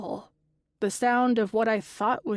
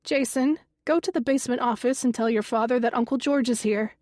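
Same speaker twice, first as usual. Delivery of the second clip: calling out; 3 semitones higher, faster than usual. Acted. Mother calling son to basement.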